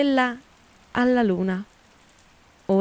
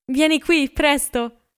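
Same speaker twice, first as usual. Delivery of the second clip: excited call; 6 semitones higher than usual. A narrator's reading. Daisy calling Gatsby to the window, eager and high. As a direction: call him over from the window, thrilled. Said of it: "esclamò Daisy dalla finestra".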